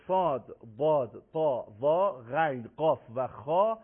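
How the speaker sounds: thick, full Arabic letter names; slow, heavy letters in a steady list; heavy articulation. Shown as a demonstration.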